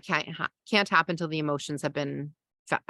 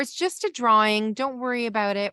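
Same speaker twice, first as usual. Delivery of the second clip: higher, upbeat brush-off; cheerleading; 4 semitones higher than usual. Shown as a demonstration. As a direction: cheerfully wave the worry away.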